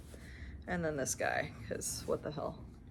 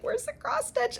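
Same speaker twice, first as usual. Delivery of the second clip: searching. Retold or imitated. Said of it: "to be like".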